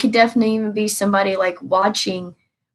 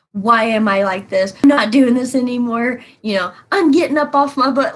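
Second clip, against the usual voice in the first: mock mad self-talk; 2 semitones higher than usual. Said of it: "like a mad thing".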